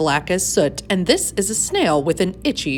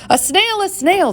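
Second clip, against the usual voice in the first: much higher, startled cry; shocked teacher; 13 semitones higher than usual. A narrator's reading. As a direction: gasp it out as if seeing something awful. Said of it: "the teacher turns pale".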